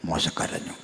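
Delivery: whispered, no voice on മോശ കരഞ്ഞു; hushed whisper. Shown as a demonstration. Preacher repeats, hushed for effect.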